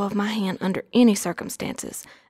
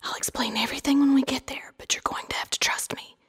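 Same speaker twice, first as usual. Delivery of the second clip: soothing whisper, much softer; calm voice; 11 semitones higher, 8 dB quieter than usual. Acted. Aunt tells her niece she is safe now, calm whisper. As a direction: hush and reassure in a higher, whispered character voice. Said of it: "in a calm voice said".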